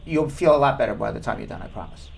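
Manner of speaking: soft, low and gentle; calm the caller down gently; reassuring. Real, not acted. Host reassures nervous caller.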